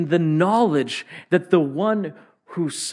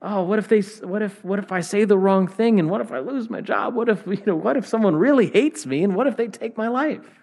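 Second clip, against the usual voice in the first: a touch of fretful panic, higher and quicker; mock anxious worrying; 4 semitones higher, faster than usual. Pastor voicing his own anxious thoughts, lightly fretful. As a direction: play the worried self, half-joking. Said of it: "I often fear".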